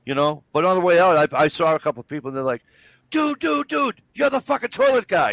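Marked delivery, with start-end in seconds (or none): 3.1-5.3 very high-pitched mock excitement; excited fan. Fans spotting him on the way out, hammed-up excitement. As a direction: squeal it like a starstruck stranger.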